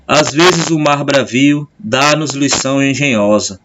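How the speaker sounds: slow, measured verse reading; poem recitation. Acted. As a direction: read it line by line with pauses. Reads a poem aloud.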